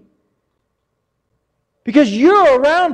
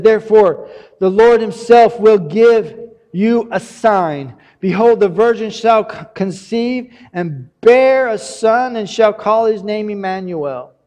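scripture reading. Acted. Reading Isaiah scripture aloud.

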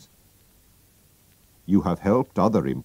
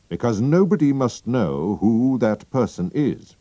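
higher, grand and formal nobleman; count's voice; 4 semitones higher than usual. Acted. The masked king explaining his secret to Holmes, grand. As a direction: speak with weighty importance.

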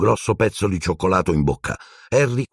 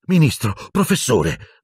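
higher-pitched, cross call to order; angry; 7 semitones higher than usual. A narrator's reading. Nurse confronting minister and professor, angry. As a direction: rebuke them sharply. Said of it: "disse arrabbiata Madame Pomfrey".

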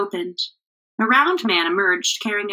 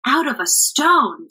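slow, higher, amused and pleased; with a grin; 6 semitones higher, 4 dB louder than usual. A narrator's reading. Travelers answering the amazed woman, grinning. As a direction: savor the little joke. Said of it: "with a grin".

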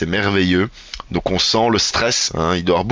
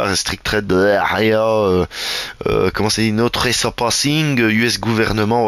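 bad English accent; slower than usual. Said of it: "mon accent extraordinaire".

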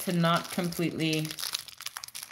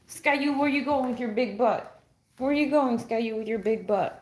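playful teasing; 3 semitones higher than usual. Real, not acted. Teasing the dog.

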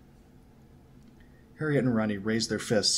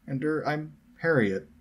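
higher, slow, hesitant introduction; piped up; 7 semitones higher than usual. A narrator's reading. Harriet introduces herself to the boys, piped up. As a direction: pipe up tentatively. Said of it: "Harriet piped up".

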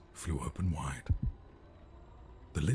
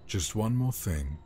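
put-on higher, louder childlike plea; pleading little prince; 6 semitones higher, 4 dB louder than usual. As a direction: stall bedtime like a child. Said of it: "said the prince".

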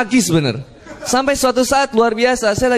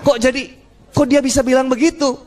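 mild mock surprise; retold astonishment; 3 semitones higher than usual. Passenger startled by his neighbour's prayer, mildly surprised. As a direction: puzzle over what was just heard. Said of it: "Cuman saya kaget".

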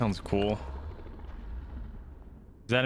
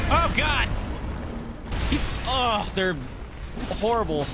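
disgusted shriek; 6 semitones higher than usual. Real, not acted. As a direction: recoil in real disgust. Reacting to a gross enemy.

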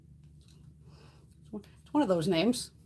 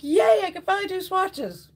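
much higher and louder, a cheery squeal; mock excitement; 13 semitones higher, 7 dB louder than usual. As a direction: gush like a kid let loose. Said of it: "I was like".

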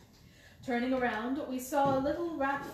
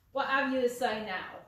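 louder, crowing over a won bet; gloating challenge; 7 dB louder than usual. Acted. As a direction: rub his nose in it. Salesman gloating after winning bet.

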